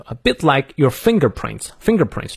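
"fingerprints" given clear emphasis; stress on FINGERPRINTS. Shown as a demonstration. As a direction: lean on "fingerprints" as the key word. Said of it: "fingerprints重读".

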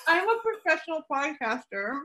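chewing while talking; mouth full. Real, not acted. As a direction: talk through a mouthful of cheese. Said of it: "my mouth full of cheese".

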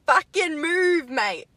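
slow, loud, hammed-up abuse at a driver; mock road rage. To another driver on the road, a hammed-up angry yell. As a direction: drag out the insult, then a high, loud "Laddie".

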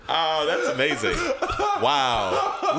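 laughing through words; giggly, amused delivery; after laughing hard. Real, not acted.

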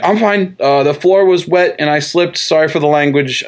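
hastily smooth over the slip, settling down; flustered cover-up. Retold or imitated. Doctor covering his outburst before a patient's mother, mildly flustered.

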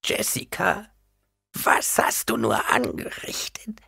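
slow, whispery high lament; wailing. A narrator's reading. Old woman reproaching Jessica, breathy wail. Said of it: "jammerte die alte Frau".

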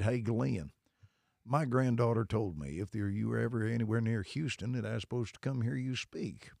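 put-on good old boy drawl. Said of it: "this good old boy".

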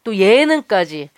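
very slow, each item drawn out; slow emphatic listing. Acted. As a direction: stretch every item slowly.

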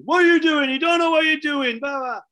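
high, loud angry heckle; angry shouting. Retold or imitated. Committee man shouting at the manager over a substitution. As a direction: bellow it across the pitch. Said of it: "this guy started shouting".

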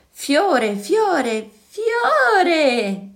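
tiny high sing-out, last word stretched; high, playful little flower calling its name; sweet little flower voice. A narrator's reading. A flower chanting its own name to two listening children, high little voice. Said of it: "con vocina profumata".

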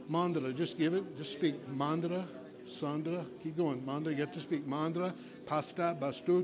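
a flow of rhythmic foreign-sounding syllables; praying in tongues. Real, not acted. Pastor praying in tongues for the congregation to copy. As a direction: chant the syllables so they can copy. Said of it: "I'm gonna pray slowly in tongues".

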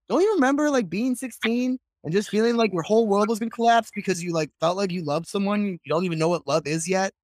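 mock plea from a worked-up teenager; imitating a pleading brother. Brother arguing with their mother.

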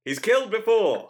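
dramatic vintage announcer; old-timey radio voice. Shown as a demonstration. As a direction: redo it deadpan in radio style. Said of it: "an old-timey radio voice".

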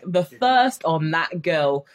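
slow, drawn out slang line; slangy remark. Retold or imitated. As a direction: savour the slang like gossip. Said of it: "or be like".

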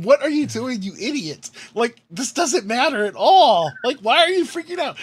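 high, incredulous inner voice; mock-frantic talking sense into yourself; exasperated self-scolding. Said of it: "I know in my head".

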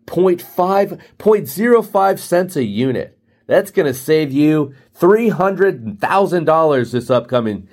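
a touch of mock presentation polish; salesman pitching. Rep presents toiletries to Hilton, hint of pushy sales pitch. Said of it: "All the sales terms, all the sales lingo".

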